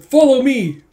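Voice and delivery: high, loud imitated general's call; charging shout. Retold general leading a charge.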